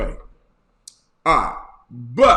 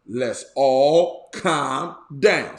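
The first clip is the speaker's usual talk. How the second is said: slow, drawn-out and lower; slow calming line; 3 semitones lower, much slower than usual. Shown as a demonstration. Bishop demonstrates his calming catchphrase, slow and low. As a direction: ease it out like a lullaby. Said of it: "my version".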